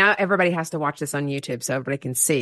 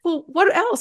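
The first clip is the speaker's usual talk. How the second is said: imitated sister; 10 semitones higher, slower than usual. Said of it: "then she's like".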